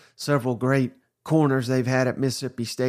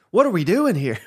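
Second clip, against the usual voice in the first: exasperated; 5 semitones higher, 4 dB louder than usual. Real, not acted. Exasperated rhetorical question.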